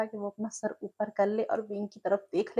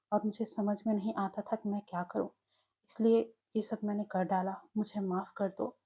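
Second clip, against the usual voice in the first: apologetic. Acted. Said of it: "माफ़ी मांगते हुए बोला".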